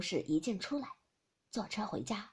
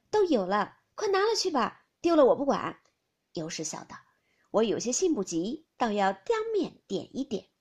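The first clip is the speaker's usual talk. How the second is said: light banter; 7 dB louder than usual. Acted. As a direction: toss the words back and forth. Fengjie and Youshi banter.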